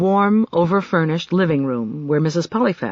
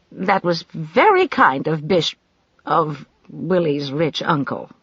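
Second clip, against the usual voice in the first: polite. Acted. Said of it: "She said politely".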